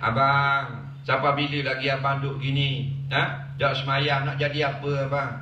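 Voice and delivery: lightly voiced wife gently urging her husband to pray; gentle coaxing. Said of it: "boleh kata lagu tu".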